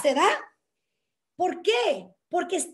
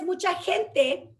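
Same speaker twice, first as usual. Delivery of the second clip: ordinary talk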